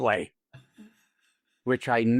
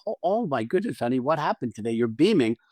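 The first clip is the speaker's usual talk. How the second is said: light up at him as he walks in; brightened wife. Shown as a demonstration. Wife greeting her beaming husband, brightened and eager. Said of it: "you brighten and you go".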